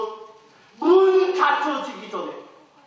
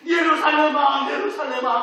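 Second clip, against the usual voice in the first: tearful lament; 4 semitones higher, 3 dB louder than usual. Acted. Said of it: "하면서 눈물을 흘리신".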